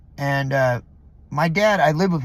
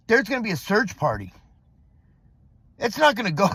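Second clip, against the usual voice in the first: indignant retort; 3 semitones higher than usual. Retold or imitated.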